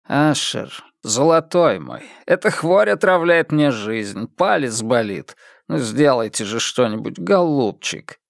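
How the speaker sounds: put-on meek, wheedling old nobleman; humble pleading. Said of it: "неожиданно смиренный".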